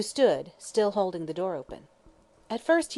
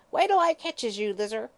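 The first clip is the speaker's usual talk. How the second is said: much higher, louder hag's shriek; old woman shrieks after her granddaughter; shrieking threat; 4 semitones higher, 4 dB louder than usual. Acted. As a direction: scream it after the fleeing girl. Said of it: "she shrieked with a volley of oaths".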